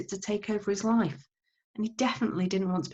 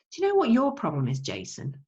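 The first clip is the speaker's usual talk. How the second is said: scolding Mum; 6 semitones higher than usual. Acted. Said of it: "asked Mum".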